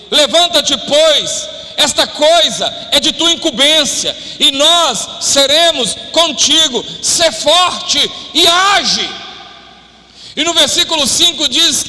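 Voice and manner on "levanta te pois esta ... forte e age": slow, weighty reading of the verse; slow preached scripture, rising to a shout on age; emphatic scripture reading. Acted. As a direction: read it as a solemn charge, building to a call. Preacher reading Bible exhortation.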